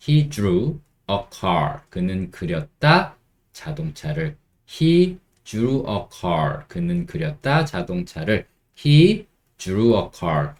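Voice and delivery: very slow, every word spaced out; slow model sentence. Shown as a demonstration. Teacher modelling for learners, very slow. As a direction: say it slowly and clearly. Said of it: "이렇게 하시면 됩니다".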